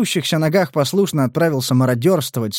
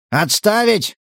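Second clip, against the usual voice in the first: high, raised bark «Отставить!»; barked order; 8 semitones higher, slower than usual. Acted. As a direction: snap out the command «Отставить!». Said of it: "рявкнул Кирка". (рявкнуть «Отставить!»)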